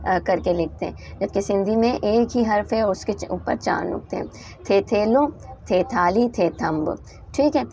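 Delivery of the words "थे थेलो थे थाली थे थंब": थे थेलो, थे थाली, थे थंब read as a careful drill; reciting letter words. Shown as a demonstration. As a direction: model each word for the class. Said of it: "अगला हर्फ है हमारे पास टे".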